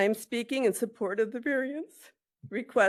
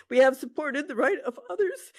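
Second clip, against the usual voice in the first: teary; 2 semitones higher than usual. Real, not acted. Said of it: "I'm a little emotional".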